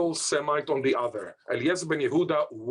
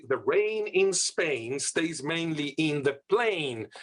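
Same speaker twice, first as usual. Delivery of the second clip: "The rain in Spain" said slowly in careful proper English; slow, precise received English accent; slower than usual. Shown as a demonstration. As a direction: enunciate like Higgins teaching Eliza in a proper English accent. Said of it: "Professor Higgins teaches Eliza to say".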